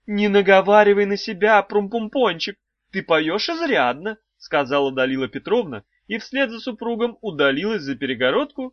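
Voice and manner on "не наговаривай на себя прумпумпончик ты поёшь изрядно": high, sing-song wife voice; a high cooing old wife; wife's high voice. A narrator's reading. Wife teasing the trapped children, high and cooing.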